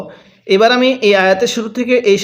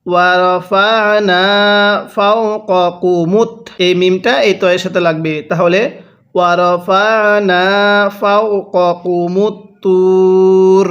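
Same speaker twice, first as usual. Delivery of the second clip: Quran recitation. Shown as a demonstration. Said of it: "আমার সাথে পড়ুন".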